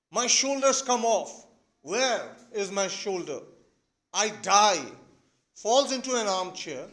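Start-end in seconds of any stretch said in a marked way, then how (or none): 0.1-1.5 slow, dramatic dying complaint; having an attack. Acted. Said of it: "he has had a full-fledged attack". 1.8-4.8 loud, slow dramatic cries of collapse; having an attack. Acted. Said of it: "he has had a full-fledged attack".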